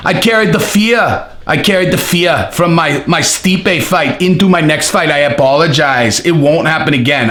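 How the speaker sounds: bad, muddled foreign accent; lightly put-on accent of uncertain origin; Francis Ngannou. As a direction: imitate the fighter in a botched accent. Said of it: "no idea what accent that is".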